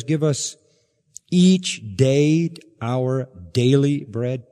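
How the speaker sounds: slow, with daily leaned on and drawn out; stress on daily. Shown as a demonstration. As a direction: dwell on the word daily. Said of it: "Double emphasis on daily".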